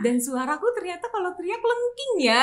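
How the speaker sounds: put-on high, loud, delighted child's voice; imitated child's discovery. Mother voices Chloe discovering she can scream, excited. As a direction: mimic a child thrilled by their own scream. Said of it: "dia baru menemukan".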